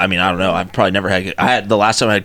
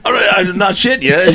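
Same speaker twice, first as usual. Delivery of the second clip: laughing; 9 semitones higher than usual. Real, not acted. Insisting through laughter about waffles.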